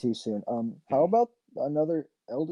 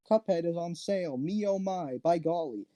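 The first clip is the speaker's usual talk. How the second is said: old-timey cartoon voice; 5 semitones higher than usual. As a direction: chirp it like a vintage cartoon. Mock old-timey cartoon announcer.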